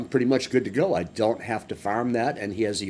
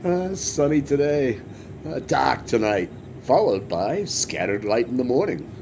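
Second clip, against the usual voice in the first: recorded weather report; 2 semitones higher than usual. Retold or imitated. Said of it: "the weather report's like a recording".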